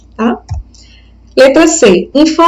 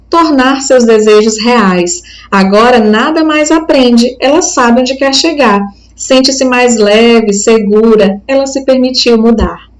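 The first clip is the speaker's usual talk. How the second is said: poem reading. Acted. Teacher reading a poem to the class, calm recital. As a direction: read each line like a gentle recital.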